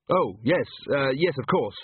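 hesitant, stumbling agreement; mildly embarrassed fumbling; awkward. Acted. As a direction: agree awkwardly, tripping over the yes.

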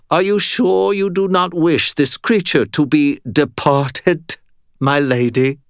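an eager little henchman; eager minion voice. Acted. Evil Bob creature voice.

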